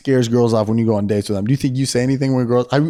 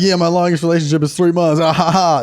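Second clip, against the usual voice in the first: lightly joking confession, pitched up; jokey, higher, ending in a fake laugh; joking manner; 4 semitones higher than usual. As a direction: pass it off as a gag with a mock laugh. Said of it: "say something in a joking manner".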